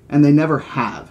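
mildly indignant snort; lightly scoffing comeback; snorted retort. Acted. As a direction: toss it back with a touch of scorn. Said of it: "Hammond snorted".

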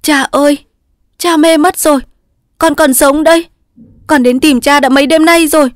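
high, loud, urgent reply; hurried reassurance. A narrator's reading. Daughter urgently telling her delirious father she is alive. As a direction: rush to tell him she is alive. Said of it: "Sơn vội nói".

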